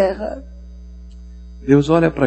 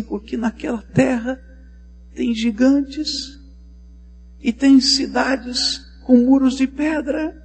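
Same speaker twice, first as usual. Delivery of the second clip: lamenting spy; 8 semitones higher, 4 dB louder than usual. Acted. Spy laments over the baby.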